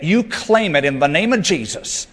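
mock Southern faith-preacher twang; Southern preacher accent. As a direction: claim it with a light Southern accent. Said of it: "if you use a Southern accent".

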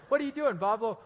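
high, loud eager call; high loud greeting. Retold or imitated. Eric greeting Pablo, high and loud. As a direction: shout the question up high. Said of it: "He's like".

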